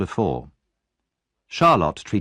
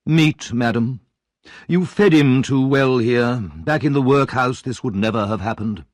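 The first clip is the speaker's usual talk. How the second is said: pompous beadle; 3 semitones higher, 3 dB louder than usual. Acted. Beadle lectures.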